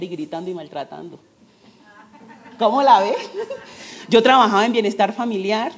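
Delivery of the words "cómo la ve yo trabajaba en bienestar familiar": laughing. Real, not acted. Laughing at her own irony.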